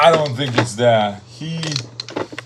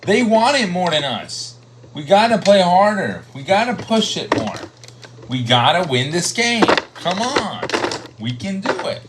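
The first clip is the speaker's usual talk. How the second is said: halftime pep speech; 4 semitones higher than usual. Retold or imitated. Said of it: "Coach Peter Spidey told them at the break".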